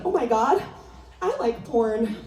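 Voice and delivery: a hint of a gushing valley girl; lightly voiced, dreamy teen gasp; Alicia Silverstone impression. Comic doing her Alicia Silverstone voice for the crowd, lightly voiced. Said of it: "That was my Alicia Silverstone impression".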